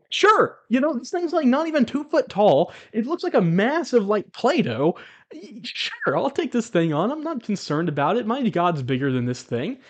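high-pitched, laughing disbelief, easing off; retold amused dismissal, starting high; amused scoffing. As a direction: scoff at a laughable little threat. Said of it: "I couldn't help but laugh".

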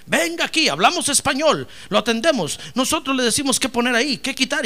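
lightly mocked ad announcer. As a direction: sell it like a TV commercial. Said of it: "los anuncios en la tele".

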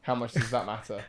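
speaking through a yawn. Real, not acted. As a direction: talk mid-yawn, sleepy. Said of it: "Sorry, I keep yawning".

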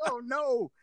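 retold dismay. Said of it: "And I'm like".

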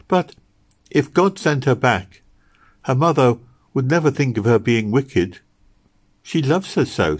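lightly voiced little girl, pleading; earnest little Meg. Little girl defending a mother's love, earnest. Meg's figure in dialogue.

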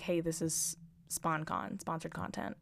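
lightly voiced finance bro; slow, smug finance bro. Shown as a demonstration. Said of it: "I kinda sounded like a douchebag finance bro".

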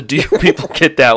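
mock irritation with a laugh; exasperated quote. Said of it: "it was the".

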